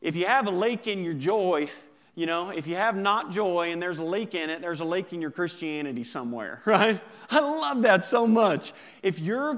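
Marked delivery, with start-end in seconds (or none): 0.0-4.6 put-on country accent. Preacher quoting Billy Sunday to the congregation in a light country accent. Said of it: "You gotta say it in a country accent". 4.6-6.6 put-on "lake" for leak, said in a light country accent, a bit fast. Preacher finishing Billy Sunday's quote in a mild country accent. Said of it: "You gotta say it in a country accent".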